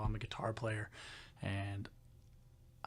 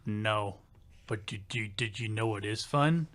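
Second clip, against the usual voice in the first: put-on thick country accent; 3 semitones lower than usual. Imitating the coworker asking about fun, thick country accent. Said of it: "he had a real thick country accent".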